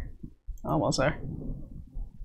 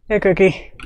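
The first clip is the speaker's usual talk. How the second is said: raised voice called across the room; calling Cookie from across the room in a raised voice; semi-outside voice; 5 semitones higher than usual. Real, not acted. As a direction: call out to the pet, half outdoor volume. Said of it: "That is my semi-outside voice".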